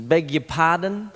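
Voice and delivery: slow, pointed beg your pardon; a mock stern father drawing it out; stern dad correction.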